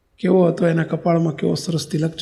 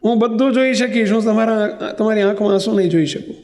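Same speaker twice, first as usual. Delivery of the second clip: a higher, mildly tearful pleading voice; retold tearful plea; 3 semitones higher than usual. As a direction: plead through tears, but understated. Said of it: "રડતો જાય ને બોલતો જાય". (રડતાં રડતાં કરેલી હળવી વિનંતી)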